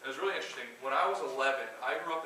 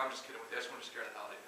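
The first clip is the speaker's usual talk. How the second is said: amused boss; 2 semitones lower, 7 dB quieter, faster than usual. Retold or imitated. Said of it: "he's like".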